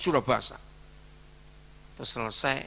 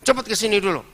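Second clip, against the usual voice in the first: loud, higher urgent order; angry command; 10 semitones higher, 10 dB louder, faster than usual. Retold or imitated. Pastor summons the groom at once, loud. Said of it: "saya marah".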